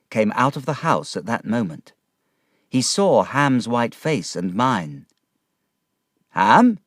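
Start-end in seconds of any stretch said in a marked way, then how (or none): 6.3-6.8 loud calling shout, higher. A narrator's reading. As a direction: call out loud across the yard. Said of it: "he shouted".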